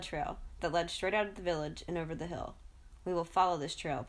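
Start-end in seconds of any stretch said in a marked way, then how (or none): 3.0-4.0 with intent. Acted. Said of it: "Papula said with intent".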